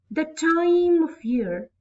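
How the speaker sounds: TIME drawn out and lifted high; slow iambic reading, leaning on TIME; stress on TIME. Shown as a demonstration. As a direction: read it slowly, landing hard on "time". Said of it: "I will not read it like this".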